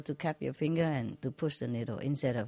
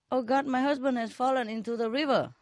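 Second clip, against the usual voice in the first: woman pleading; 9 semitones higher than usual. Acted. Woman calls for help.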